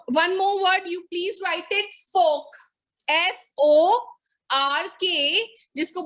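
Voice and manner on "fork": "fork" as fohk, short and falling; silent R. Shown as a demonstration. Teacher dictating to the class, fork with silent R. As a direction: leave the R out of fork. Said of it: "The R is silent".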